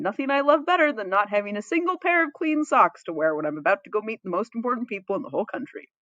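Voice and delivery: dry mock delight; sarcastic. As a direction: pretend to love it, clearly not. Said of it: "He was being sarcastic".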